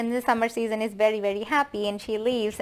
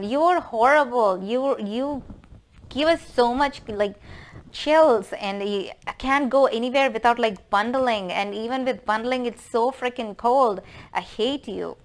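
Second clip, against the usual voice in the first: mock outrage, high-pitched and emphatic; hammed-up rant, fading on the last words; acted scolding; 3 semitones higher, 3 dB louder than usual. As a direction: berate winter like an exasperated mother-in-law. Mother-in-law berates winter season.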